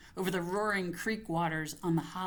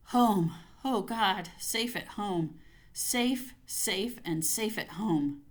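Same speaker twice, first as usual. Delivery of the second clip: breathless relief; 3 semitones higher, slower than usual. Acted. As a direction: cry out in relief at being safe. Relief at reaching home.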